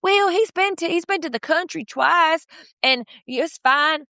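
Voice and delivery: high-pitched mock defense of someone; high imitated voice, drawing out the last words; imitated defensive answer. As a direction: pitch it way up, imitating a mom making excuses. Acting out mom's defensive answer.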